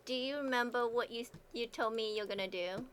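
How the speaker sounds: breathy seductive murmur; sexy voice. Acted. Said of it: "I'm trying to do my sexy voice for John".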